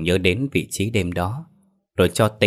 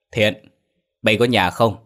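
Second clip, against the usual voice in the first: calling out; 2 semitones higher than usual. Acted. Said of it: "ông gọi lớn".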